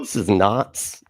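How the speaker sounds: slow, drawn-out imitation Boston accent; mock Boston accent. Host mimicking the video's narrator, mock Boston accent. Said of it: "what accent is that?".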